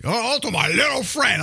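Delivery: high, hammed-up Tony Montana quote; mocking the movie's fake Cuban accent; mock Scarface accent. Host mocks Pacino's Scarface line in a put-on accent. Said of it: "get the potatoes out of your mouth".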